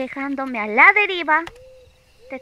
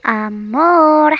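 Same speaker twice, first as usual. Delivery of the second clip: calling out; 3 semitones higher, 7 dB louder than usual. Acted. Girlfriend calling for attention.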